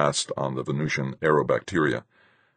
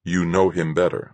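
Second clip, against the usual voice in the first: disbelieving echo; 2 semitones higher than usual. Acted. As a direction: echo it back in doubt. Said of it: "I echoed".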